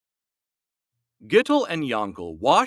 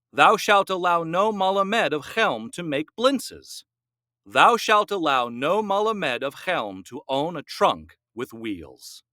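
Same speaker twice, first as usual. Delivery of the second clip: solemn proclamation; 2 semitones higher than usual. A narrator's reading. Rabbi announcing new commandments, solemn proclamation. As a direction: pronounce it like scripture.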